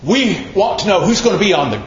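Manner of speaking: high-pitched imitation of squabbling disciples; mock grousing. Preacher imitating disciples griping to Jesus, mock grousing. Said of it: "Quit grousing".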